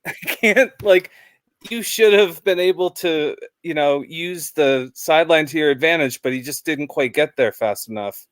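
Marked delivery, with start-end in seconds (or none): 0.0-6.2 retold bark. Fan imitating a player getting on his teammate, mock barking. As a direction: bark a half-hearted telling-off in a raised pitch. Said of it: "he just barked at him".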